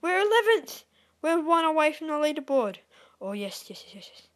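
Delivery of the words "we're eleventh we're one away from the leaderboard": loud, high burst of excitement; excited shout. Real, not acted. Gamer one place from the leaderboard, excited shout. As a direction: call it out high and thrilled.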